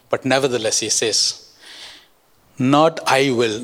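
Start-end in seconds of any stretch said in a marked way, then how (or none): 2.6-3.6 slow, I stressed in "Not I will"; emphatic I. Shown as a demonstration. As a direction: lean on the word I, slowly. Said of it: "that I is in the emphatic sense".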